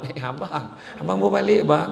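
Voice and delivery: soft, sugary welcome to husband; sweet greeting. Acted. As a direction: switch to sweet wife. (isteri menyambut suami dengan manja)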